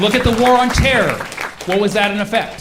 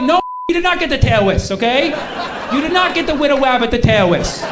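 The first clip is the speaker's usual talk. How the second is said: mock-angry telling-off, raised pitch; exasperated scolding; 4 semitones higher than usual. Rebuking the toddler excuse over killed civilians, indignant scolding. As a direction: set the excuse maker straight, firmly.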